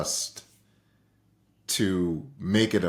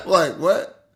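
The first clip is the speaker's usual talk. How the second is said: high, loud incredulous what; stunned by the mentor's reply; disbelieving what; 10 semitones higher, 6 dB louder than usual. Real, not acted. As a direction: react in disbelief.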